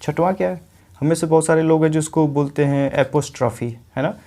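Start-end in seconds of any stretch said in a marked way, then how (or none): 2.9-3.8 एपोस्ट्रॉफी opened with an "ae" sound; common mispronunciation. Shown as a demonstration. Teacher quotes how many people say it, mispronounced एपोस्ट्रॉफी with "ae" first. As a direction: say एपोस्ट्रॉफी with "ae-po" at the start. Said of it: "ये एपोस्ट्रॉफी नहीं होता है".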